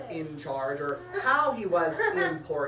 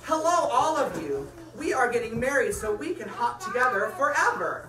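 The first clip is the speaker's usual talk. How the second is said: excited announcement; 4 semitones higher, 4 dB louder than usual. Acted. Announcing wedding to animals.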